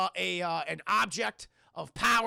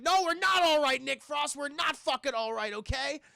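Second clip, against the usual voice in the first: high, loud, heated retort; acted exasperation; 6 semitones higher, 5 dB louder than usual. Stepson answers clueless friend after the death, exasperated. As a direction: snap back at a clueless friend, worked up.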